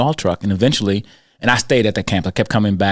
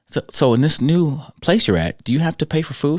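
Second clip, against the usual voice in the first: overly silly; 5 semitones higher than usual. Retold or imitated. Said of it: "I was kinda being overly silly with her".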